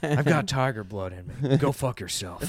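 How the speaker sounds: low, quiet mock Charlie Sheen growl; lightly put-on tough guy boast; Charlie Sheen impression. Podcast host voices Charlie Sheen's boast, quiet mock swagger.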